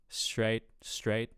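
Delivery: "straight" repeated with its vowel overdone; exaggerated odd vowel. Shown as a demonstration. Coach copies the clip's odd word, exaggerated "straight". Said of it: "I'm over-exaggerating".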